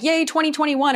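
high, bright little cheer of hope; cheering the new year in, mock excited. Everyone cheering the new year, mock excited. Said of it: "we were all like".

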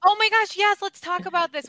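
oh my gosh, way up and loud with glee; excited squeal. Real, not acted. Host thrilled her cohost is in marriage classes, excited squeal. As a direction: burst in, thrilled by the topic.

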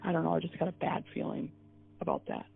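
soft, half-whispered dread; grim hush. Retold or imitated. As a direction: whisper it like a bad omen. Husband quoted with bad feeling.

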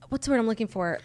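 whispered aside; muttering to self. Real, not acted. Searching for a word on air, whispering. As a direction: whisper it while hunting for a word.

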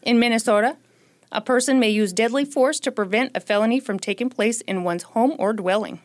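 formal news-read quote, accented Minnesota flavour; quoting the news. Shown as a demonstration. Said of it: "To quote C B S News".

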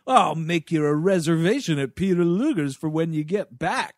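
a sassy, teasing radio controller; lightly voiced sassy NASA guy ribbing the crew; sassy mission control. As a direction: needle the astronaut with mock hospitality. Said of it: "this sassy, like, nasa control dude".

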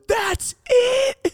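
very high, strained shout; taunting yell. Retold or imitated. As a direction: yell it like a scornful dare. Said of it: "And I yelled at her".

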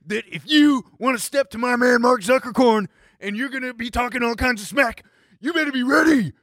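mock wrestling trash talk; puffed-up smack talk with a mock shout; false bravado. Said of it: "talking some smack to my boy".

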